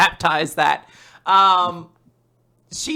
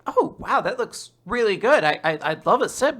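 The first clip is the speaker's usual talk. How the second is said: eager excitement; 4 semitones higher than usual. Acted. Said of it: "Flomberry is like".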